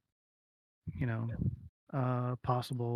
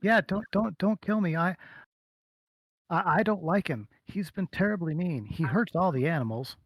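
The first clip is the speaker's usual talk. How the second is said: put-on high, louder, pleading girl voice; scared small girl; 6 semitones higher, 5 dB louder than usual. Captured girl begs and complains of her master, high anxious pleading. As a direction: stammer a plea, pitched up and urgent.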